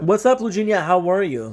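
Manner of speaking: high, loud, excited hello; excited greeting. Real, not acted. Greeting a viewer.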